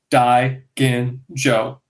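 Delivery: "dai, gin, jo" in separate low syllables; sounded out syllable by syllable. Shown as a demonstration. Learner reading a Japanese sake word, sounded out syllable by syllable. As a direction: say "dai, gin, jo" one piece at a time. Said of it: "look at a word and be like".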